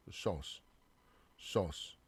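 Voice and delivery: "sauce" as saws, one syllable; "sauce" the English way, as saws; English aw vowel. Shown as a demonstration. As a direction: say "sauce" with a rounded aw. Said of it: "이 발음이랑 좀 다르죠".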